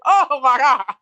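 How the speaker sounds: fainting gasp. Retold or imitated.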